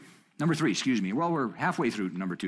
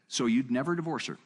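lightly voiced challenger asking, a bit higher; retold questioner; 4 semitones higher than usual. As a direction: put the question as a surprised challenger would. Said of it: "Then the guy said".

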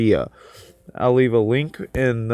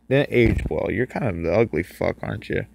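quiet taunting; 3 semitones lower, 4 dB quieter than usual. Real, not acted. Taunting the ugly animatronic.

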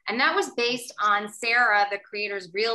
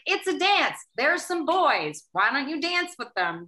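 imitated school organizers; 5 semitones higher than usual. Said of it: "It was like".

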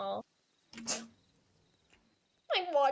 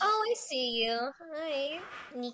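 voice cracking; 2 semitones higher than usual. Real, not acted. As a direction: voice cracking on the greeting. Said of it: "My voice is cracking so badly".

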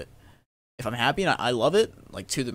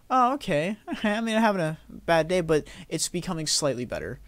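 imagined viewer, laughing; 4 semitones higher than usual. Retold or imitated. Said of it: "I want someone to watch me and go".

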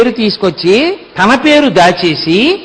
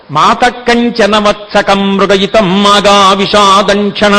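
slow, measured Sanskrit chanting; verse recitation; slower than usual. Acted. Preacher quoting the gopika's verse, slow and measured. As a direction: intone each word of the verse deliberately.

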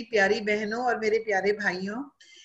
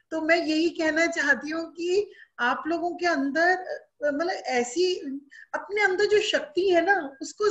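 voice breaking; 6 semitones higher than usual. Real, not acted. Emotional appeal, voice cracking.

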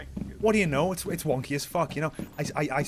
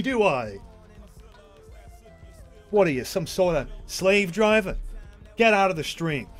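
angry; 4 semitones higher than usual. Real, not acted. Angry rant at teammate.

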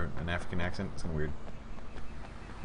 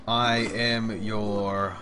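dramatic slow reveal; much slower than usual. Acted. Dramatic line to enemy.

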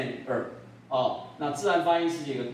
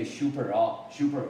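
Taiwanese-style "super" starting with "shoo"; Taiwanese pronunciation; 2 semitones lower than usual. Shown as a demonstration. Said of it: "那在台湾".

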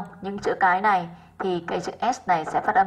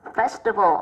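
"festival" slowly, stressed on "fes"; first-syllable stress; slower than usual. Shown as a demonstration. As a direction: lean on the opening syllable of "festival". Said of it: "âm một".

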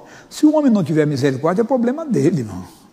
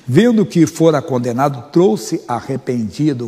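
scripture reading. Acted. Reads Matthew 27 aloud.

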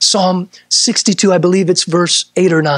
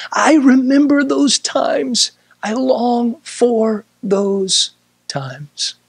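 longing; 4 semitones higher, slower than usual. Retold or imitated. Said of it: "He said".

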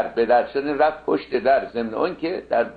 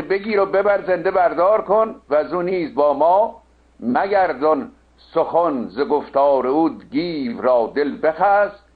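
epic verse recitation; 3 semitones higher, slower than usual. Acted. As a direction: recite like an epic, drawing out line endings.

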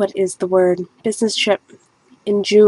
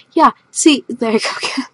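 lightly voiced little cloud, higher; the cloud chimes in once more; cloud voice again; 4 semitones higher than usual. Painter lets the painted cloud talk again, squeaky.

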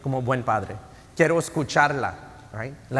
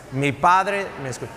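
loud declaration. Real, not acted. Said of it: "Una vez más".

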